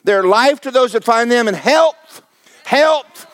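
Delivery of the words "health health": building preaching shout. Acted. Preacher building up the congregation, rising to a ringing shout. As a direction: climb to a ringing shout on health.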